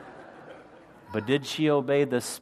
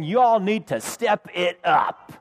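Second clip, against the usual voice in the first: mock demanding shout; 4 semitones higher, slower than usual. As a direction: bark it like a harsh preacher. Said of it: "Is he saying".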